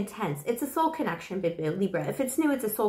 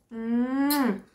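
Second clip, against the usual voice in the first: kiss sound. Pretend. Blowing a kiss to the Libra viewer, smacking kiss. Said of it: "Give me a kiss".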